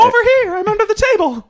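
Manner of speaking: high booming voice from under the table; magically amplified voice. Pretend. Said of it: "That's what it sounded like".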